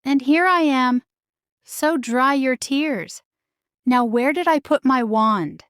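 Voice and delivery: a kindly fairy godmother, lightly played; gentle hint of a fairy godmother.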